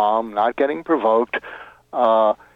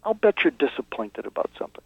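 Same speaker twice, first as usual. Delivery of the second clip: softer and softer, coaxing the feelings out; soft empathetic probing; 7 dB quieter than usual. Shown as a demonstration. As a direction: gently draw out the disappointment. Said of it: "you say".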